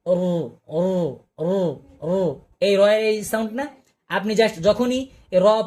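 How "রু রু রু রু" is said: a short rolled "রু", drawn out slowly at the end; ra sound demo. Shown as a demonstration. Teacher demonstrating the ra echo sound, slow rolled "রু". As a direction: say "রু" with a light roll, slowing down. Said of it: "রয়ের sound কি?".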